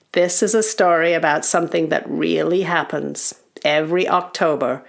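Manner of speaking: lightly voiced, grave elder goblin; a weighty warning to the little ones; goblin uncle. Goblin uncle introducing a scary tale, grave elder voice. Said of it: "And then Uncle says".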